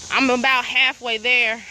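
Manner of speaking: talking while walking fast; huffing and puffing between words; out of breath. Real, not acted. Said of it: "I'm huffing and puffing".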